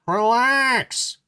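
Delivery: high, loud breezy wise guy; Klaus voice. Acted. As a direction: brush him off like a smug wise guy. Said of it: "picked the voice for Klaus as ... wise guy".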